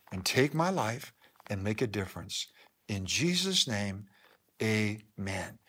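measured prayer in short phrases with pauses; leading prayer. Acted. Pastor leading the congregation in a salvation prayer, solemn and measured. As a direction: pray line by line, leaving room to repeat.

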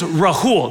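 "Rahul" with a plain breathed h, not throaty; correct name pronunciation. Shown as a demonstration. Speaker teaching the audience his name, correctly pronounced. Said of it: "not Rahul like Habakkuk".

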